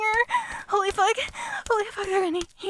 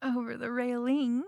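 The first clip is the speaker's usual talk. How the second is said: spent afterglow; 3 semitones lower, 8 dB quieter than usual. Acted. Breathless afterglow after the climax.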